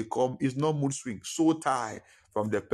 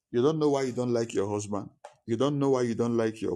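a bit louder, more forceful preaching; louder retake. Shown as a demonstration. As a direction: push it out stronger for the recording. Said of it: "I pray we get it recorded".

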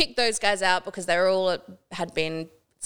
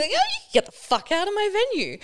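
very high, sugary smiling service voice; customer service voice; 13 semitones higher than usual. Retold or imitated. Manager throwing out a rude guest, high smiley customer service voice. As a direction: deliver the swearing with sweet fake cheer. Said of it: "in my customer service voice with this giant smile".

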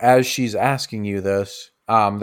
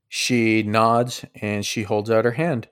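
normal talking voice

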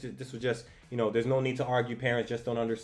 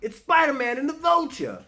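high, louder mock yell; excited bystander yell; 13 semitones higher, 6 dB louder than usual. Bystander screaming up at the sky, high excited mock yell. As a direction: call it out like an amazed fan. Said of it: "he's screaming".

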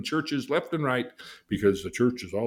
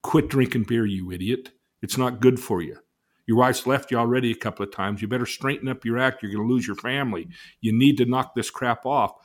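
stern scolding; 3 semitones higher, 6 dB louder than usual. Retold or imitated. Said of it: "is he saying".

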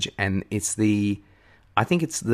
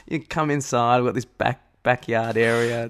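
suggestive. Retold or imitated. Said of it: "Are you deliberately making everything sound, like, sexual?".

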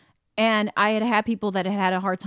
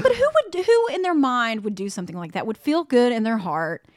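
outraged disbelief; 3 semitones higher, 5 dB louder than usual. Retold or imitated. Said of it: "I was like".

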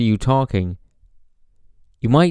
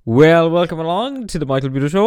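a lightly hammed-up professional announcer welcome; put-on radio host voice; 5 semitones higher, 3 dB louder than usual. Podcaster imitating his own early put-on announcer voice. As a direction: sound like a polished radio presenter, a touch higher. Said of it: "Why are you putting in that voice?".

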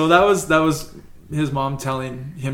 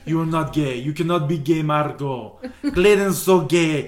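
mom voice; 2 semitones higher than usual. Retold or imitated. Mother warning her son about his friend. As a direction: scold like a worried immigrant mom. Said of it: "this is me playing both parts".

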